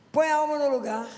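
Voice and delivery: emphatic demo prayer; firm prayer. Shown as a demonstration. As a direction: order the soul back into place. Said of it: "falar assim com o Senhor".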